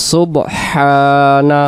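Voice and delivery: সুবহানা slow, with a long হা; correct pronunciation. Shown as a demonstration. Teacher joining the spelled syllables, drawn-out correct pronunciation. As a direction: draw out সুবহানা, keeping the হ audible. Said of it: "উচ্চারণ হবে".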